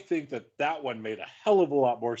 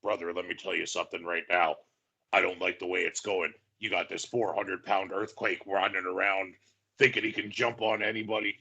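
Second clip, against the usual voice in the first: lightly done lower wrestling-promo voice; a half-hearted Hogan, pitched lower; Hulk Hogan voice; 6 semitones lower than usual. Retold or imitated. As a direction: podcaster doing a mock Hogan rant, lower, brother-style. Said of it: "I don't know why I'm doing the voice".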